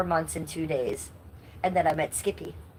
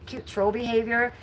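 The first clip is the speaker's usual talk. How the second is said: mocking sing-song; 6 semitones higher than usual. Mocking the troll's excuse.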